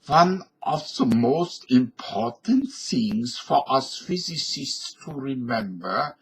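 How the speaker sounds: put-on a slow, lightly German-accented professor; Albert Einstein impression. Einstein addresses fellow physicists, light German accent. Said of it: "Albert Einstein".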